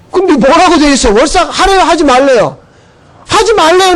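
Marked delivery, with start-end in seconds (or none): 3.3-3.9 emphatic question. Real, not acted. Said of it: "repeated question".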